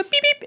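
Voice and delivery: high squeaky laughing beep; tiny cat beep imitation. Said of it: "she go".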